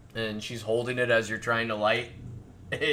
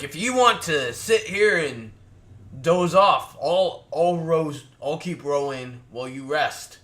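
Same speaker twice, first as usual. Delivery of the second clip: gruff dwarf offer; 3 semitones higher, 5 dB louder than usual. Acted. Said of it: "He's like".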